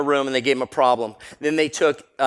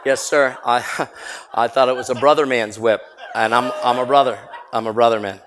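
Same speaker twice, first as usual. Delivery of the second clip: laughing reply; 4 dB louder than usual. Retold or imitated. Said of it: "I'm like".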